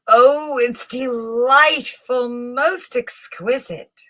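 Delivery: feigned rapture. Acted. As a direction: gush with false delight. Chamberlain feigning admiration.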